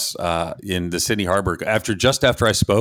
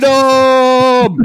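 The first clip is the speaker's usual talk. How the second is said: shouted, high Scottish battle cry; Scottish accent; 9 dB louder than usual. Shown as a demonstration. Host showing his only Scottish line, shouted Scottish accent.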